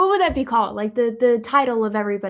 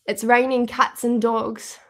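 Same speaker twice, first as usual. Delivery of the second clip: slow, deliberate British accent; amateur British accent, drawn out; attempted British accent. Shown as a demonstration. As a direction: try it carefully in a British accent. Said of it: "Is that accurate?".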